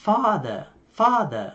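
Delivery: British "father" with open ah and no r; British accent. Shown as a demonstration. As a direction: say "father" as "fah-thuh", British. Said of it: "Bình thường giọng Anh là".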